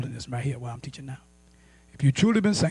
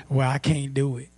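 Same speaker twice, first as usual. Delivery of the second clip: resigned quote; 5 semitones lower, 5 dB quieter than usual. Acted. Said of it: "go to acceptance and say".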